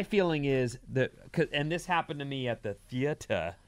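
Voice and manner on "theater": "theater" ending in a soft "tuh"; non-standard "theater". Real, not acted. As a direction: say "theater" as "THEE-uh-tuh", dropping the final r. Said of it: "If I'm saying it wrong".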